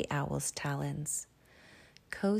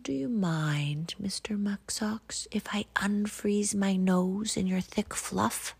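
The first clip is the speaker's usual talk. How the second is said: sly fox; 4 semitones higher than usual. Acted. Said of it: "she sidled up to him".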